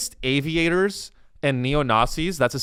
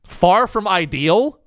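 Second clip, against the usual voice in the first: incredulous echo; 4 semitones higher, 5 dB louder, slower than usual. Real, not acted. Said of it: "understatement of the century".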